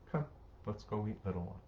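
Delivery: soft, easy invitation to a little one; gentle parent. Acted. Parent calmly inviting child back to dinner, soft and gentle.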